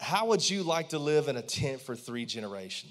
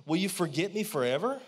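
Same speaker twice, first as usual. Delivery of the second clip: pleading lament. Retold or imitated. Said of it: "He said".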